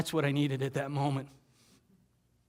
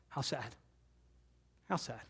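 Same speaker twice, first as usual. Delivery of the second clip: much softer, lower, sorrowful; sad; 3 semitones lower, 15 dB quieter than usual. Real, not acted. Teller mourning the smoking skyline, hushed and sad. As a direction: let it fall away in grief.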